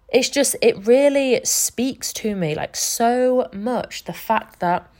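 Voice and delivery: slow, tender, choked up; emotional. Real, not acted. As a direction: let the feeling slow every word. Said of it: "getting emotional".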